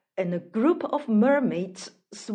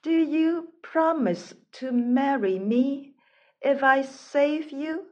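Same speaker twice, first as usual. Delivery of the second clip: lilting, slightly raised melodic question; 3 semitones higher than usual. Acted. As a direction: ask with a gentle musical lilt. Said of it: "a melodic voice asked".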